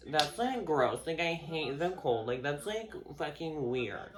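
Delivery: put-on grossed-out whine; mock disgust. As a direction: imitate a person sneering at someone's likes. Mimics person shaming another's likes.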